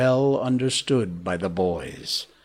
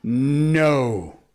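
second no drawn out and higher; cowering cry; 4 semitones higher, 3 dB louder than usual. A narrator's reading. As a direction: build from a small refusal to a wail.

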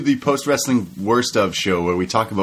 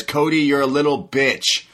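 imitating MJF; 5 semitones higher than usual. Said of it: "He says".

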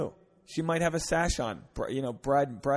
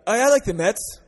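meek caving agreement, higher and much louder; 7 semitones higher, 9 dB louder than usual. Shown as a demonstration. Wrong move, guy caves to the Mets fan, eager. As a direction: give in too eagerly. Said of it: "You can't just be like".

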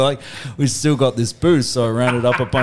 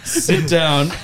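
slow, higher, deliberate command; stern order; 4 semitones higher, slower than usual. Retold or imitated. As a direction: lay down the law word by word. Retold stern order to his mates.

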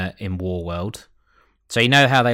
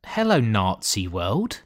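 mock greeting; 5 semitones higher than usual. Opening window to Nazi world.

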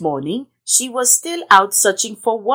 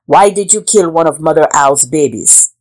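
stern king; 2 semitones lower, 4 dB louder than usual. Acted. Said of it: "said the king".

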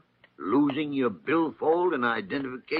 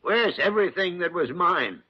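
higher, louder indignant demands; outraged; 6 semitones higher, 4 dB louder than usual. Acted. Doctor finding his furniture gone, outraged. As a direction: cry out over what has been taken.

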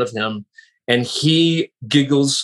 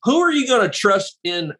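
higher mock Southern twang, teasing; impression of a country singer; 4 semitones higher than usual. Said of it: "he said to me one time".

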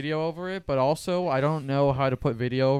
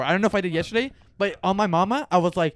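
higher, heated self-defence; insistent protest; 5 semitones higher, 4 dB louder than usual. Real, not acted. Host swears he told the absent friend, insistent protest. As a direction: swear to it with raised pitch.

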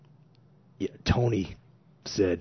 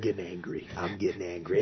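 softer, low mock grumble of getting angry; 3 semitones lower, 5 dB quieter than usual. Tony restless in camp, quiet mock grumble. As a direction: grumble it under the breath, half joking. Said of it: "he's like".

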